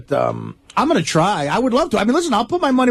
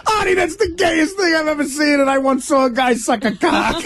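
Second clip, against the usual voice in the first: laughing; 6 semitones higher than usual. Real, not acted. Quoting the line while laughing.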